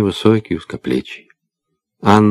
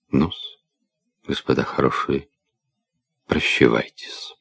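put-on drunk guard voice. Drunk guard ends visit.

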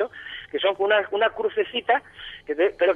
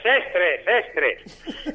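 fake echo. Echoing own words for fun.

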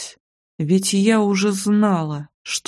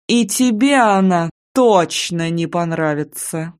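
slow, mocking taunt; Nadezhda, gloating. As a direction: savour each word, slowly, to hurt her. Rival taunts heroine by phone.

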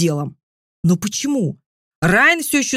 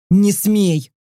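threatening growl. A narrator's reading. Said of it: "угрожающе прорычал".

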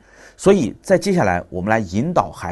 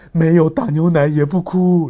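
put-on slow, louder, higher little-boy recital; child reciting; 8 semitones higher, 7 dB louder, slower than usual. Son reciting patience lesson to father, slow toddler voice. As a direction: chant it like a proud toddler.

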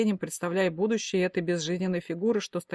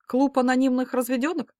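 teasing jab; 6 semitones higher, 4 dB louder than usual. A narrator's reading. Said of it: "подколола я".

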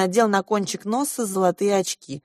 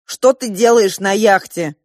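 slow, louder stern demand; stern questioning; 2 semitones higher, 7 dB louder than usual. A narrator's reading. Father demanding why his son is on the yacht, stern. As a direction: press the boy for an answer.

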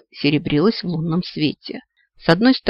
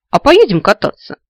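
a higher, louder, eager invitation; eagerly tempting her along; ardent; 5 semitones higher, 8 dB louder than usual. A narrator's reading. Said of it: "жарко предложил он".

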